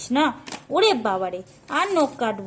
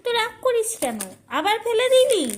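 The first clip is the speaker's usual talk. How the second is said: high pet talk; 9 semitones higher, 4 dB louder than usual. Real, not acted. Coaxing a sulking pet bird.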